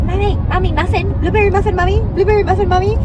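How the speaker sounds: put-on high excited toddler voice; little kid voice. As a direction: whine it like an eager toddler. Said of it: "I was like".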